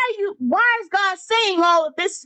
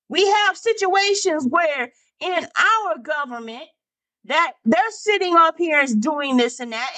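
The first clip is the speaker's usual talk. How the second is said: raised-pitch, emphatic sermon delivery; impassioned preaching; 3 semitones higher than usual. Real, not acted. Preacher admonishing the congregation about government, impassioned. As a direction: press the point on the congregation.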